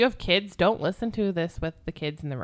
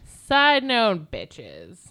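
catchphrase; 6 dB louder, much slower than usual. Acted. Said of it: "we haven't had a side note, bitches".

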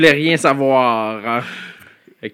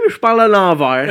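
laughing; 4 semitones higher, 7 dB louder than usual. Real, not acted. Joking about his character.

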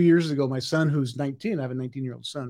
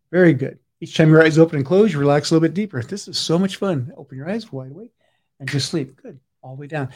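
hypnotic deepening. Acted. Hypnotist deepening the volunteer's trance, rhythmic commands.

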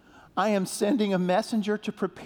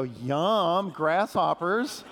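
yum; much slower than usual. Shown as a demonstration. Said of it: "Everybody go".

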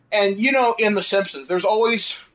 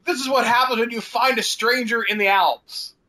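imitating Goodman; 5 semitones higher than usual. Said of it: "Television version".

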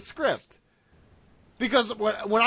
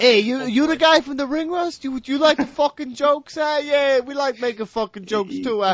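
hammed-up wiseguy threatening a guy in jogging shorts; tough guy mobster. Podcast host mocks his cohost as a Jersey mobster, hammed-up wiseguy menace. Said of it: "I'm gonna get whacked".

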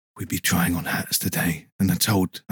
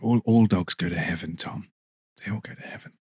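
hushed. Acted. Guest hushes the host with dog heaven. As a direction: fade into a whisper. Soft dreamy reply.

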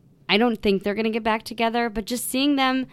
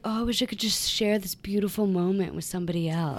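mock tearful; 2 semitones lower, 6 dB quieter than usual. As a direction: imitate someone tearing up, wistfully. Retelling his teary moment.

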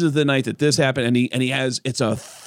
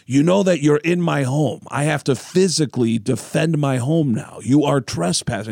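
mock menacing rock singer. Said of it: "paraphrasing that with a singer".

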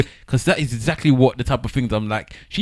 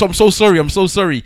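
retold apology; 8 semitones higher, 6 dB louder than usual. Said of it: "He goes".

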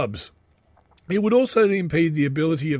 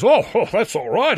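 high, loud put-on voice of the star; a quick high impression of the famous guest; imitating the celebrity; 6 semitones higher, 6 dB louder than usual. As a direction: mimic his breezy reply, pitched up.

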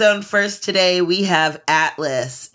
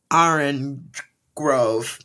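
dramatic title read; 2 semitones lower, much slower than usual. Acted. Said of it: "My favorite is ... Orange Grove".

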